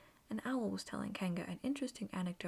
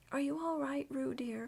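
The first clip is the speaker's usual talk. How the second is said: worried mother calling, louder and higher; a touch of motherly worry, raised; anxious call; 5 semitones higher, 4 dB louder than usual. A narrator's reading. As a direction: call out to her baby in mild alarm. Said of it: "called Kanga anxiously".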